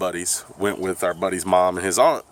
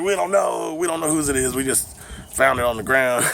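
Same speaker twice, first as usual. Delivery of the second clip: feigned innocence; 6 semitones higher than usual. Retold or imitated. Teens questioned by police about the blunt, mock-innocent denial. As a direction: act out playing dumb to police.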